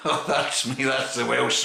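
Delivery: said through a real laugh. Real, not acted. Beer reviewer laughing at himself for his Welsh slip. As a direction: laugh at your own slip as you say it.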